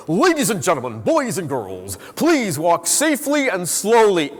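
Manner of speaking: sing-song public announcer voice; park announcer. Acted. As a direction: announce it to the crowd with swooping pitch. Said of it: "you hear this voice go".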